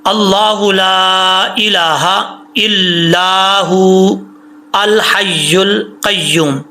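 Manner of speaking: slow chanted Arabic recitation; Quranic recitation. Shown as a demonstration. Teacher reciting the verse to students, slow melodic chant. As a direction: chant the verse slowly, drawing out the vowels.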